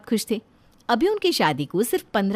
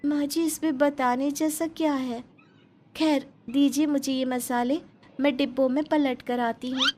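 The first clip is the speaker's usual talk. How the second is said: put-on sweet young bride; 5 semitones higher than usual. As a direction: explain innocently to the mother-in-law. Urmila brushes off question. (भोली बहू की मीठी ऊँची आवाज़)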